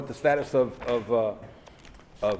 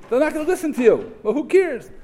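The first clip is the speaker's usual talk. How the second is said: shrugging divine voice; 11 semitones higher, 6 dB louder than usual. Acted. God's answer continued.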